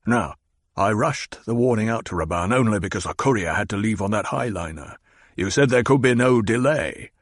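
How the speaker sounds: lightly voiced menacing baron; the Baron, demanding. Baron demands answers from his Mentat, impatient. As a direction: press him for answers, impatient.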